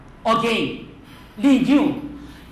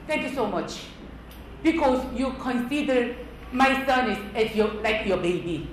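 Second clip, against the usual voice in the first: softer, acted thanks; grateful Korean mother; 4 dB quieter than usual. Korean mother thanking someone who corrected her child, grateful. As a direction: imitate a mother's measured gratitude. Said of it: "But Korean minded".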